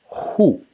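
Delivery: hu with a sharply falling tone; Mandarin pronunciation. Shown as a demonstration. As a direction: say hu high, dropping fast. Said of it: "which is pronounced".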